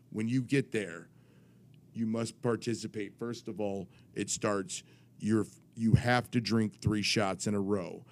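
lightly voiced official reading out the rules; mildly authoritative, measured delivery; authoritative commissioner.

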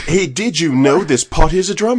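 high, loud, eager question; bursting with goofy discovery; excited sketch guy. Retold or imitated. Retelling the sketch, an excited high pitched question.

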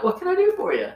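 high-pitched, sweet Southern greeting; nice Southern voice. Retold or imitated. Manager greeting an unhappy customer, nice Southern voice. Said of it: "southern, nice voice".

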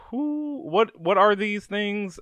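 high-pitched, baffled questions; acted bafflement. Player reacting to the Whispers showing up everywhere, baffled.

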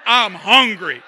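loud, laughing retort; mock indignant. Pastor retorting to his wife, loud mock indignation. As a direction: snap back, half joking. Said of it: "I'm like".

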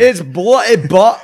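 put-on high, loud, slow English accent; hammy rural English accent. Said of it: "like, rural England".

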